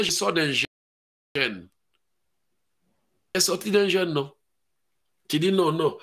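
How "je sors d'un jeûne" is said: low slow whiny excuse; mock excuse. Believer tells pastor he just fasted, slow low whine. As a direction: fob off the pastor.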